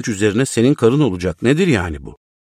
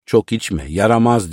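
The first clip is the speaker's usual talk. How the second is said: slightly raised call, not a real shout; mother calling her son, mildly raised; mild mock yell; 2 semitones higher than usual. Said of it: "diye bağırdı annem".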